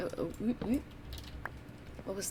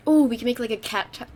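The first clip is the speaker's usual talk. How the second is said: talking around gum; words slurred by gum in mouth; chewing gum; 4 semitones higher, 9 dB louder than usual. Real, not acted. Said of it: "I have gum".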